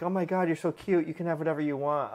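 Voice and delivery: mock doting owner gushing over a cute puppy. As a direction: coo at the puppy you can't resist. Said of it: "I don't get that emotional, like".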